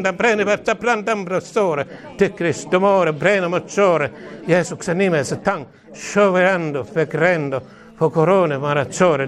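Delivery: rhythmic glossolalia with chanted tang tang; praying in tongues. Acted. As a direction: pour out ecstatic tongues over the listener. Fervent prayer in tongues.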